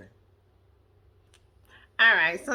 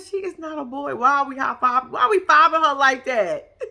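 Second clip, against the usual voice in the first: louder, laughing indignation; mock protest laughing; 3 semitones higher, 4 dB louder than usual. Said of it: "I said".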